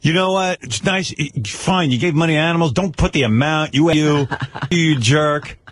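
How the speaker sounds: high, indignant imitation of angry fans; mock vicious attack. Host retells fans attacking Eric's tweet, mock viciousness. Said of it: "the fans viciously start attacking Eric".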